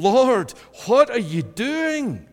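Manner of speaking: high, loud, desperate cry to God; grieving believer crying out loud to God; anguished pleading prayer. Acted. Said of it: "you're at the point when you're saying".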